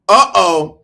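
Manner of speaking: loud mocking uh-oh. Real, not acted. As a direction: tease with an uh-oh. Mocking mama's boy.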